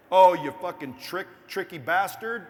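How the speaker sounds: loud, mock-outraged yell at a sneaky post; hammed-up angry shout at a tricky bastard. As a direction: bellow it like a scroller who got tricked. Viewers react to clickbait headline.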